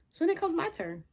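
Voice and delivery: amused laugh while recounting. Real, not acted. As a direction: giggle as you tell it. Laughs telling her turn to pray.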